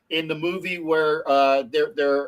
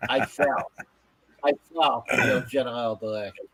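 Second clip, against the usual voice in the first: lower-pitched mock French accent; 6 semitones lower than usual. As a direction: play the Monty Python Frenchman, French accent. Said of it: "Was that a French accent?".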